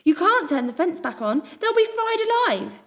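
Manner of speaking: high, loud panicked plea; terrified pleading cry; horrified plea. A narrator's reading. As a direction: beg them to stop. Pip pleads in horror.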